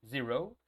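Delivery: Zero with a voiced Z, rising at the end; vibrating Z. Shown as a demonstration. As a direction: model Zero with a buzz on the Z. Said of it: "Tiene que existir esa vibración".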